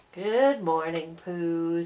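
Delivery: a touch of weary Eeyore gloom; gloomy old donkey. Acted. Eeyore greeting Pooh, low and glum.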